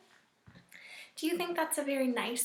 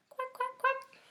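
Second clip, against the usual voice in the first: high, bright quacking like a duck; duck quacks; 10 semitones higher than usual. Pretend. Teacher voicing duck sounds.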